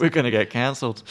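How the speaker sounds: put-on echoing in an Australian accent; Aussie twang on cancelled. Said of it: "you said the word council in an Australian accent".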